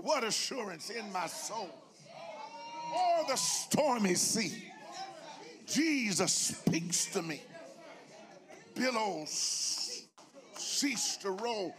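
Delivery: slow, measured preacher's recitation; hymn recitation. Real, not acted. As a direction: savour each hymn phrase reverently. Recites hymn lines in sermon.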